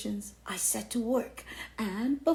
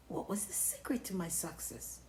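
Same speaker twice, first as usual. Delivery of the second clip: whisper; 2 semitones lower, 10 dB quieter than usual. Acted. Confiding aside.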